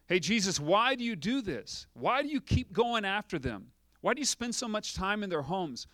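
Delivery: a grumbling onlooker challenging Jesus; complaining voice. Pretend. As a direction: press Jesus with mock complaints.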